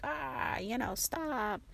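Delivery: mild mock annoyance at the kids; mock irritated. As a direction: play fed up with the interrupting kid, but lightly. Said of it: "and then I'm like".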